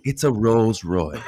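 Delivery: slow, smooth luxury ad read; silky luxury voiceover. Retold or imitated. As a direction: sell it like a premium car ad. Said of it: "that silky luxury voiceover".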